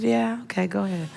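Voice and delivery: offhand, casual go-ahead; nonchalant. Retold or imitated. Driver letting two women cut in front, nonchalant. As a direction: wave them through without caring. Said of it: "he just kinda nonchalantly waves me".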